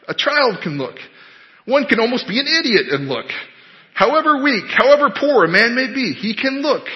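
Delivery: high, rustic untrained preacher; lay preacher. Acted. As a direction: preach it like an earnest country layman. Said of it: "this is what he was saying".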